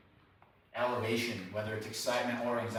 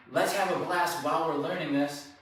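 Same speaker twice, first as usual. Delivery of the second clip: higher, mildly upbeat let's-have-fun tone; uppity party voice; 5 semitones higher than usual. Acted. Trainer mimicking a too-fun approach to teaching the dog, mildly uppity. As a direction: act out making it a party. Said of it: "more uppity, party, let's have fun way".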